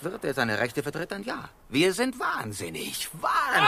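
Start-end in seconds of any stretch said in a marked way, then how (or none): 1.7-3.7 defiant shout. Acted. Sailor defiantly declares madness.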